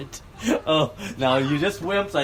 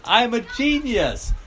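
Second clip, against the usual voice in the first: mock boasting; 9 semitones higher, slower than usual. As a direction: crow playfully about himself. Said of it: "Tell me I'm a genius".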